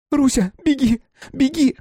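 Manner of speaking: high desperate scream. Acted. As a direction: scream at him to run. Wife screams at husband to run.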